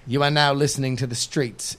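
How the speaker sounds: light rapper announcer voice; rapper impression. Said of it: "It's my impression of the streets, the rapper".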